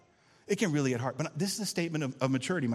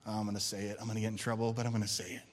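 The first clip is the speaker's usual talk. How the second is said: hushed confiding; 4 semitones lower, 5 dB quieter, much faster than usual. Acted. Confiding a risky admission.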